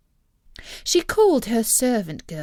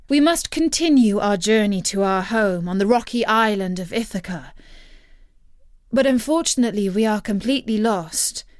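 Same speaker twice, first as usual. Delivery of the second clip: formal hero's request; 4 dB louder than usual. Acted. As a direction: speak like a noble hero to a queen. Hero formally addresses enchantress.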